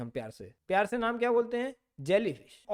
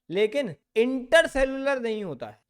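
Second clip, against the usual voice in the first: intercellular hit louder as the warning word; stress on intercellular; 2 semitones higher, 5 dB louder, slower than usual. Shown as a demonstration. Teacher warning NEET students about a trap word, intercellular stressed. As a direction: punch intercellular so the students remember it is wrong. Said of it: "तो ये word नहीं तुम टिक करना".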